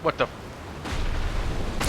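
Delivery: slow, breathless whisper of disbelief; slow whispered what the; stunned whisper. Real, not acted. Shocked at falling into space.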